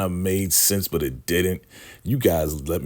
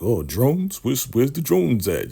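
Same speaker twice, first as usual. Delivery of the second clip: high, bewildered voice, a bit louder; looking around puzzled, voice pitched up; dim confused guy; 9 semitones higher, 4 dB louder than usual. Retold or imitated. Slow Manny looking for drones, high and bewildered.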